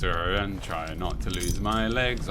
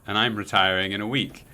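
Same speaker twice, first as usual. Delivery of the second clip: mock retired lady. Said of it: "Deirdres and, and Brendas".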